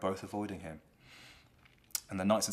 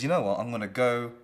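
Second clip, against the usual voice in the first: higher and louder, flaring up at his daughter; angry outburst; 5 semitones higher, 9 dB louder than usual. Retold or imitated. Lear flaring up at Goneril, loud and high. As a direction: snap back hard, voice up.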